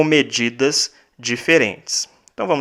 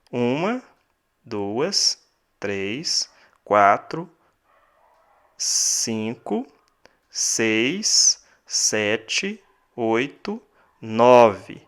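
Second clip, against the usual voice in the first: counting syllables; 3 dB quieter, much slower than usual. Shown as a demonstration. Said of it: "Dez sílabas poéticas".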